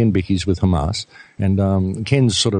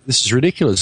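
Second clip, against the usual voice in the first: exasperated; 5 semitones higher than usual. Retold or imitated. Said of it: "we're going".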